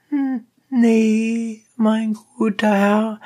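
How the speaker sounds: high, rough peasant voice; donkey driver. A narrator's reading. Donkey driver challenging the dentist, high and blunt.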